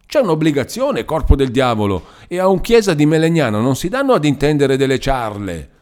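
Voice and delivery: put-on an old man squawking in outrage; screeching old man. A narrator's reading. Old Chiesa demanding his money: goose-like screech. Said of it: "Il vecchio strillava come un'oca".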